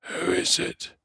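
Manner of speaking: voiceless, feeble croak. A narrator's reading. Dying dwarf to someone stealing up on him, weak croak. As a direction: croak it out with almost no voice. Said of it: "he croaked".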